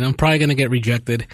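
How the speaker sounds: ordinary talk, nothing marked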